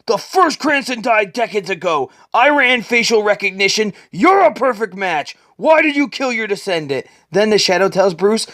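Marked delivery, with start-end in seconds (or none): 0.1-7.1 raised demand. Acted. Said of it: "Bruce yells out".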